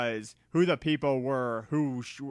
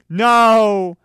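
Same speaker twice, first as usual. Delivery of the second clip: high loud desperate plea; pleading; 7 semitones higher, 12 dB louder than usual. A narrator's reading. Men begging the shooter, loud high pleading. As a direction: beg for your lives, loud and high. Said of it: "they pleaded".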